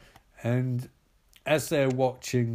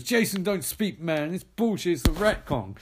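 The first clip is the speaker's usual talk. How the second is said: high, raised heckle from the back; heckler shout; 6 semitones higher than usual. Retold or imitated. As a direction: call it out from the crowd. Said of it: "a shout from back goes".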